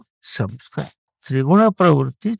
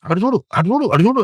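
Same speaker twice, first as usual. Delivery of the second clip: mind pulling you away; 7 semitones higher, 3 dB louder than usual. Retold or imitated. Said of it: "అని పరిగెత్తిస్తుంది".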